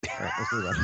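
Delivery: very high, silly falsetto; squeaky mock voice. Host moving the show on, in a squeaky falsetto. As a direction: squeak it out like a cartoon. Joking way to change topic.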